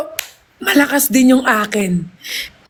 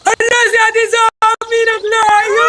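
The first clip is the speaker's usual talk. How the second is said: excited; 6 semitones higher, slower than usual. Real, not acted. Reacting to more gifts.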